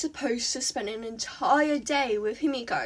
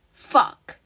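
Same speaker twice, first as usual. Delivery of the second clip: frustrated curse; 9 dB louder than usual. A narrator's reading. Ochako's inner curse.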